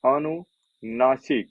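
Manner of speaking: अनुनासिक stretched very slowly, every syllable held long; drawn-out answer. Shown as a demonstration. Teacher repeating the term for his class, slowly drawn out. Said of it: "क्या है?".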